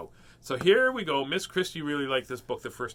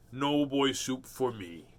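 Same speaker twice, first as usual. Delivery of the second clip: slow, drawn-out goofy voice; lightly put-on funny voice; a hint of a cartoon character; silly character voice; slower than usual. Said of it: "I like doing this voice".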